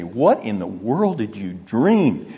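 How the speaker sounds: a lightly voiced wife asking what he dreamed; hint of an amused wife; wife's startled question. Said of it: "How many times my wife has said to me".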